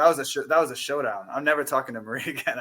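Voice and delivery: laughing through the joke about Marie; chuckling, half-joking. Real, not acted. To the panel about Marie, laughing.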